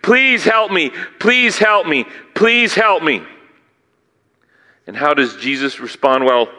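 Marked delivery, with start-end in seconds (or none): 0.0-3.2 begging. Retold or imitated. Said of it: "begging, begging".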